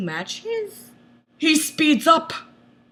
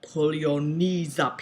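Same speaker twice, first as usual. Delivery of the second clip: soft order; 9 semitones lower, 6 dB quieter than usual. A narrator's reading. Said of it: "he orders, softly".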